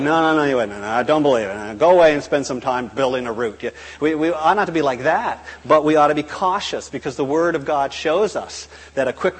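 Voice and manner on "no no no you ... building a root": louder mock-grumpy refusal; lightly voiced old grouch talking over someone; grumpy old evangelist. Evangelist turning away a would-be convert, mock-grumpy. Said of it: "grumpy old evangelists".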